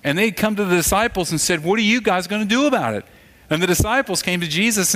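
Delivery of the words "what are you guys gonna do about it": raised, quick complaint; acted complaining, pitched up and hurried. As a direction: demand it like a hungry, grumbling crowd. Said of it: "They were complaining".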